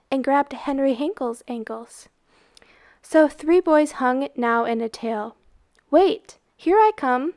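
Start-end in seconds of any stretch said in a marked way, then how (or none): 5.9-7.3 higher, louder call; a boy calling out as he jumps in; eager cry. Acted. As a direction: call out as you jump in. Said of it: "cried Beggar".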